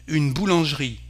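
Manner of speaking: "boulangerie" as "boo-lonzh-ree"; silent E before -rie. Shown as a demonstration. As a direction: join "zh" straight to "ree" in "boulangerie". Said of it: "we don't pronounce the E".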